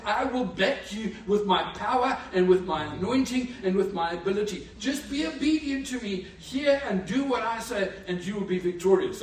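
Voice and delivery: loud, proclaiming God's promise; booming voice of God. Acted. Preacher voicing God's promise, booming and loud. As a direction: thunder it out as God.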